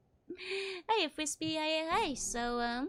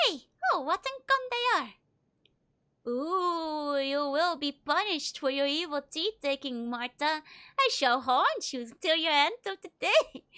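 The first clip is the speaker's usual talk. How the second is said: mock ghost; 3 semitones higher, 5 dB louder than usual. Player pretending to be the corpse, mock ghostly threat. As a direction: moan it like a haunting corpse.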